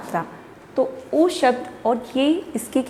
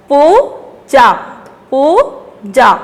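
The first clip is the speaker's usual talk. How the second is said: "पूजा" twice, slow, with rising long "पू"; stressed long vowels; 3 semitones higher, 5 dB louder, much slower than usual. Shown as a demonstration. Teacher drilling children in long vowels, stressed. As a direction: split and stretch "पूजा". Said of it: "जोर दे के बोलना".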